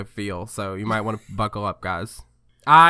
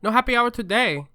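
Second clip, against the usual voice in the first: higher-pitched, put-on Asian-accented manager; mock Asian accent; 10 semitones higher than usual. Co-host translating the manager's refusal, mock Asian accent. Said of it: "very thick Asian accent".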